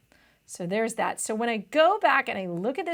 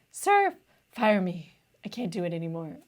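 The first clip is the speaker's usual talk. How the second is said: put-on pleading old man; 8 semitones higher than usual. Tutor voicing old Nawab begging his boss to fire him, high pleading old man. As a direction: play the weary old servant begging to be let go.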